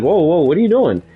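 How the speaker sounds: mock alarm. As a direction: act out being taken aback. Retelling a man's startled reaction.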